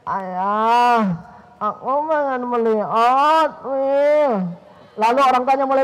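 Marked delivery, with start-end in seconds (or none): 0.1-4.3 sidle up and coax father; wheedling child. Retold or imitated. Child coaxing father again for a toy, lightly voiced. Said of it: "Lalu dia deketin lagi".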